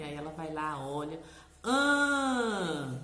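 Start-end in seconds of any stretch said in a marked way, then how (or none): 1.6-3.0 put-on 1 child's answer. Shown as a demonstration.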